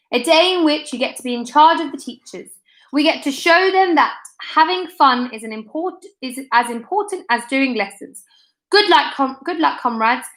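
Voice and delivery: rally the troops, a touch grand; rousing speech. Acted. Joe to the school crowd: lightly voiced grand rallying speech.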